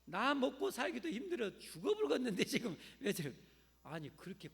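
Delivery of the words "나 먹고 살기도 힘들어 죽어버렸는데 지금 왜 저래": annoyed grumbling. Retold or imitated. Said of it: "성도들은 어떻게 해요?".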